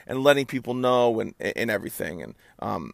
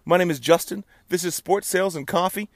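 higher-pitched, showman's podcast welcome; announcer intro; 5 semitones higher than usual. Real, not acted. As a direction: greet the crowd like an announcer, big pitch swoops. Show opening to listeners.

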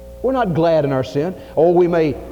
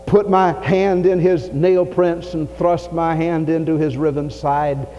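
Tommy's defiant doubt; 2 semitones higher than usual. Acted. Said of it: "They said, he said".

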